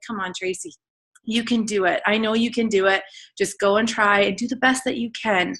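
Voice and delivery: gentle imitation of an encouraging mom; tender retold reassurance; kind, soft, sweet. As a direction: coax her softly, like a sweet mom. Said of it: "so kind and soft and sweet".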